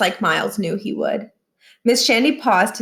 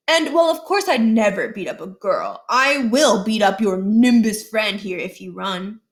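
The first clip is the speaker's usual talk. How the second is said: a hint of a schoolyard threat; smug threat. Josh threatens to beat up Miles, lightly smug menace.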